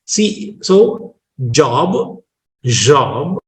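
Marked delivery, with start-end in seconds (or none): 1.5-2.2 Indian-English "job"; Indian pronunciation. Shown as a demonstration. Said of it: "are different pronunciations of the same word". 2.6-3.4 British pronunciation. Shown as a demonstration. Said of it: "are different pronunciations of the same word".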